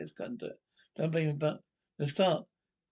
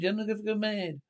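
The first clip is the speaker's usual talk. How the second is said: higher-pitched, insistent repetition; raised pitch, making the point a second time; insistent repeat; 4 semitones higher than usual. Acted. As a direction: repeat it pointedly for someone who didn't hear. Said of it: "I said".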